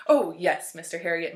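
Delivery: mild plaintive wail. Acted. Dog owner scolded by the vet, mild wail. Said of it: "Missus Pumphrey wailed".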